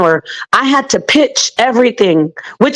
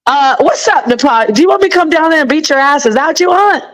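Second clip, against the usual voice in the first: mocking imitation; 3 semitones higher, faster than usual. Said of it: "You said it like this".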